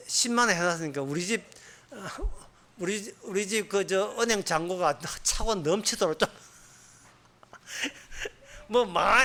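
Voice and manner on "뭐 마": laughing while speaking, slowed; amused, laughing slowly. Real, not acted. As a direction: chuckle through the words. Laughing at greedy tithe hopes.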